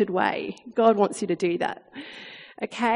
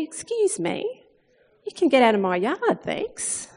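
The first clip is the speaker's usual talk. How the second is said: mock polite; 2 semitones higher, slower than usual. Politely telling Satan to leave.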